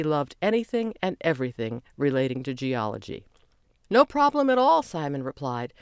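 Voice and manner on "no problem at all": high bright reply. A narrator's reading. Simon answers Chelsea's thanks.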